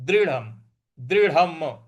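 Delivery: दृढ़म closed on m without a vowel; halant final m. Shown as a demonstration. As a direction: stop दृढ़म on closed lips. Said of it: "म पर जो हलंत है". (दृढ़म के अंत में हलंत म्)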